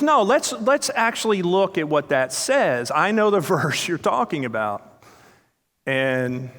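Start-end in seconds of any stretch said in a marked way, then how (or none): 0.0-5.0 teasing invite. Retold or imitated. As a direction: lift the voice and tease. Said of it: "he goes".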